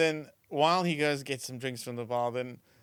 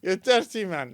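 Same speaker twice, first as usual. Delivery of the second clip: loud, slow, hammed-up prim wife; mock scandalised wife; 8 semitones higher, 11 dB louder than usual. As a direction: drag it out like a shocked wife. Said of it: "And there's".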